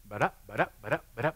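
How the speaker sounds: nonsense syllables in rising pairs; bouncy "ba-da" patter; imitated rattled-off recitation. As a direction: mimic someone reeling off verses. Imitates instant rapid recitation.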